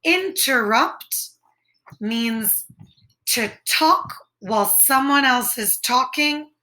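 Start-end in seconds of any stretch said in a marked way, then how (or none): 0.0-1.3 slow clear word. Shown as a demonstration. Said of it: "The next word is interrupt".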